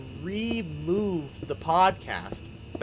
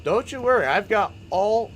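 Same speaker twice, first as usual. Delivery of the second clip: sing-song reassurance; 8 semitones higher, 6 dB louder than usual. Real, not acted. Teasing reassurance repeated.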